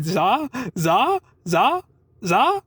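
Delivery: rapid rising syllables imitating the woman; quick mimicked za. Mimicking the poster woman's quick za to the deli guy. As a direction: rattle off the zas fast and light. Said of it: "she's saying it very quickly".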